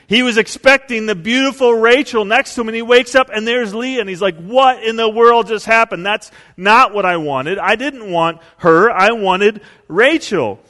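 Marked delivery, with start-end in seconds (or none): 4.4-10.6 higher, louder, slowing on the last words; upset outburst. Retold or imitated. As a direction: protest the switched bride, dismayed. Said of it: "he gets really upset".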